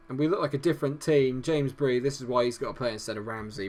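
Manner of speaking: ordinary delivery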